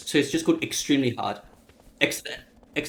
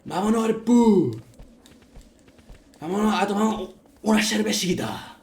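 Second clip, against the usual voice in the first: rural hick; 6 semitones higher than usual. Retold or imitated. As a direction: call out like a rural farmhand. Continues the hick voice.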